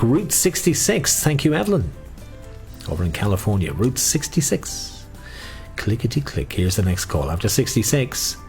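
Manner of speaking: sing-song number calling; bingo caller. Acted. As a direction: lilt each number like a bingo hall.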